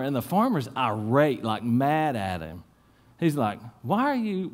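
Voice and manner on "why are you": higher, baffled question; a confused jockey at the barn; puzzled jockey. Retold or imitated. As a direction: ask in disbelief. Jockey puzzled by angry farmer.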